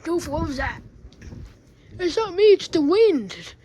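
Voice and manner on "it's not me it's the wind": high, loud denial; loud protest. Acted. Toy loudly blames the wind. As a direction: insist it wasn't you.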